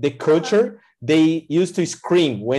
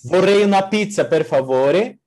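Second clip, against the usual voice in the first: Italian; 4 semitones higher than usual. Shown as a demonstration. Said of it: "ordering pizza in Italian".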